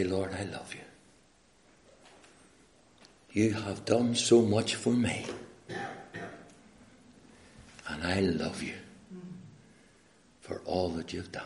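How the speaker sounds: gently spoken, lowering prayer; tender devotion. Acted. Preacher as John telling the Lord his love, tender.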